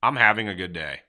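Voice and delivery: subdued, half-hearted claim; going through the motions; unconvinced. Shown as a demonstration. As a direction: say it without any enthusiasm. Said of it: "truly lying to himself".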